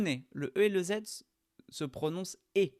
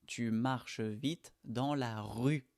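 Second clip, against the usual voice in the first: slow repeat; slower than usual. Shown as a demonstration. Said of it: "on dit rue".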